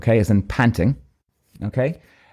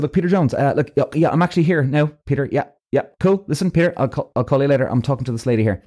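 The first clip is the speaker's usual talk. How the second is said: lively one-sided phone chat; busy actor faking a call to an agent; pretend phone call; 3 semitones higher than usual. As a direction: talk briskly to an imaginary caller. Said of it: "I'm pretending to be on the phone".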